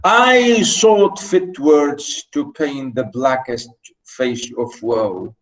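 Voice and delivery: slow, deliberate reading of verse; verse recitation. Shown as a demonstration. Reads the poem line aloud.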